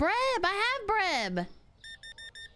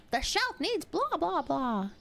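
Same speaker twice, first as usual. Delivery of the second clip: mock chat request; 5 semitones higher, slower than usual. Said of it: "You gotta say".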